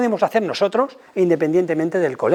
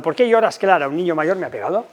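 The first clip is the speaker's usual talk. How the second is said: acted parent dialogue. Shown as a demonstration. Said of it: "Ponemos la entonación que sea la adecuada".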